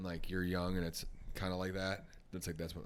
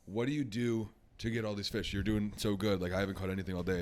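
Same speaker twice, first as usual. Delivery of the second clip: louder, exasperated asking; baffled pleading; 6 dB louder than usual. Acted. Grandpa asks the kid about all these fish, pleading. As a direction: press for the secret, a little desperate.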